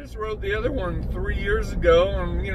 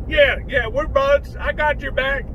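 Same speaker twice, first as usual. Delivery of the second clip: Bubba voice; 6 semitones higher than usual. Acted.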